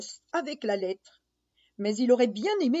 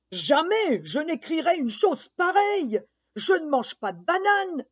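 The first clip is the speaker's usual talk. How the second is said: indignant lion; 5 semitones higher than usual. Acted.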